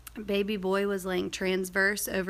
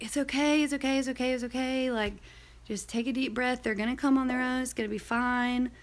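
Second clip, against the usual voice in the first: lightly higher, soothing repeated reassurance; a hint of a friend calming someone down; reassuring friend; 4 semitones higher than usual. Best friend calming her down.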